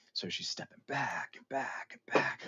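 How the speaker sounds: hushed, unvoiced; whisper. Real, not acted. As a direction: whisper it like a ghost story. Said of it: "spooky hushed narration".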